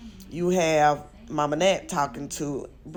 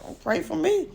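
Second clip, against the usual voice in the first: imitating her; 10 semitones higher than usual. Retelling her snippy retort.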